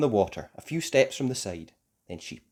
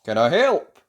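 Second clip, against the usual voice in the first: kind offer; 9 dB louder than usual. A narrator's reading. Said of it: "said a kind voice".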